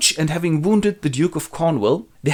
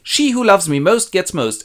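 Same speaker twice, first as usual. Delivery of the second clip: higher, louder royal proclamation; grand king voice for his daughters; hammed-up old king; 7 semitones higher, 5 dB louder than usual. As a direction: announce it like a pompous old king. Lear sets the love test.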